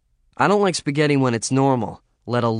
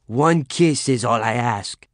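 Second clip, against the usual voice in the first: hammy lover; 4 dB louder, slower than usual. Acted. Hammed-up lover, slow.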